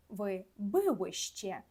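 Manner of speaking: Polish "я бивем" drawn out slowly, every sound clear; slow Polish demo. Shown as a demonstration. Teacher modelling the Polish form for students, very slowly. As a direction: say "я бивем" slowly for learners to copy. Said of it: "додаємо закінчення".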